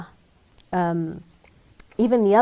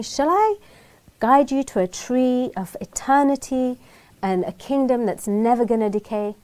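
playing dumb; 4 semitones higher than usual. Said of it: "he plays dumb".

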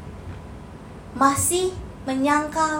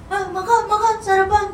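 raised voice calling someone to breakfast from a distance; calling from afar; 4 semitones higher than usual. Retold or imitated. A host calling guests to breakfast from a distance, raised voice. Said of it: "Nggak, nggak gitu".

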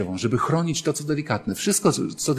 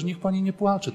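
higher, tender hush to a crying woman; tender comforting; 6 semitones higher, 3 dB quieter than usual. Retold or imitated. Priest tenderly consoling a weeping wife, gently. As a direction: coax her softly to stop crying. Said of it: "jak ja do niej mówiłem tak czule".

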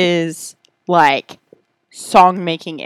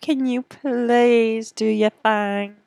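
mock Australian accent; 2 semitones higher, slower than usual. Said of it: "Am I Australian?".

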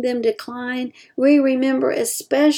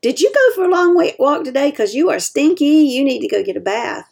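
teasing; 4 semitones higher, faster than usual. Shown as a demonstration. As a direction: poke fun at the smell. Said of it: "we might say to them".

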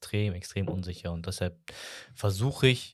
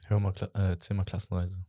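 hushed nudge to the next topic; whispered prompt. Real, not acted. Nudging the host toward the class trip story, whispered.

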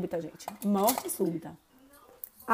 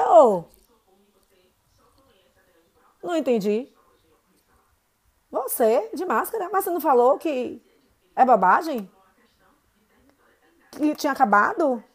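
teasing, loud fake astonishment; mock surprise; 3 semitones higher, 6 dB louder than usual. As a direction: pretend to be shocked, louder. Mocking the student about mask. (surpresa fingida e provocadora)

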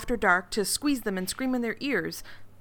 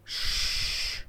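library whisper. Acted. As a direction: hush them like a librarian. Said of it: "Library voices".

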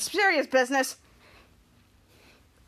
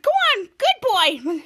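slow coaxing voice; 4 semitones higher, 3 dB louder, much slower than usual. Retold or imitated. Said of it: "He said".

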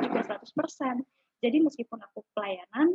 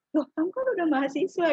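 raised, higher-pitched imitation of a scolding parent; mock parental scolding; 6 semitones higher, 4 dB louder than usual. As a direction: act out a parent telling off their student child. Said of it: "Akhirnya dimarahin". (menirukan orang tua mengomel)

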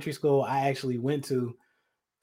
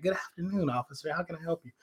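mock polite; 3 semitones higher, 9 dB quieter, faster than usual. Overly polite to the cop.

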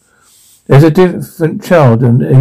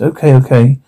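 panicky, gasping breaths between words; breathless panic; hyperventilating; faster than usual. Acted.

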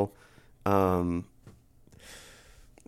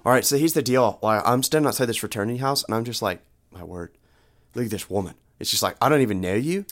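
Australian-sounding dude pitch; halting, put-on Australian-like accent; Todd. Todd makes his awkward pitch to Louise, Australian-sounding. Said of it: "I'm gonna use my Todd voice".

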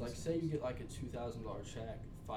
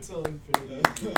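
laughing; 5 semitones higher, 14 dB louder, slower than usual. Real, not acted. Echoes the eulogy line, laughing.

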